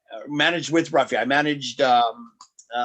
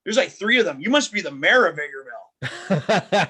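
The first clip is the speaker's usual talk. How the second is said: heel insult; 3 semitones higher, 5 dB louder than usual. Retold or imitated. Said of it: "channeling my inner Duke".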